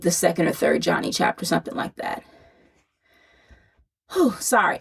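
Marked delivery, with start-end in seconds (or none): 4.1-4.8 out of breath. Real, not acted. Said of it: "I'm out of breath because I'm pregnant".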